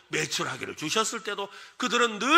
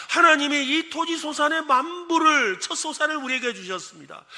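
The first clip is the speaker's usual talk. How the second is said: building proclamation; 2 semitones higher, 3 dB louder than usual. Acted. Worshipper listing God's gifts one by one, building proclamation. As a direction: declare each line more fervently than the last.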